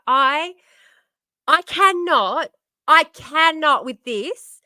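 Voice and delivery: slow, loud, drawn-out disbelief; loud exasperated groan of words. Real, not acted. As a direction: stretch each word out, fed up. Exasperated rant after muted mic.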